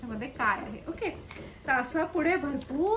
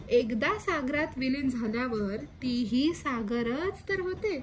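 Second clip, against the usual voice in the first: poem recital. Acted. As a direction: let each line settle, gently recited. Poem, grandmother's answer.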